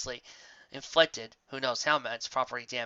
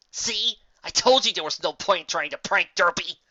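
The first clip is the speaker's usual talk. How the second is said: exasperated; 4 semitones higher, 5 dB louder than usual. Acted. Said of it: "with an exasperated sigh".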